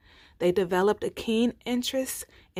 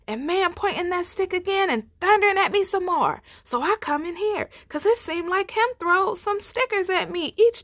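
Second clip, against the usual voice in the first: high, loud rushed frightened telling; shaken lion; 8 semitones higher, 4 dB louder than usual. Acted. He lion telling Bruh Bear about Man, frightened and rushed. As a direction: pour it out in fright.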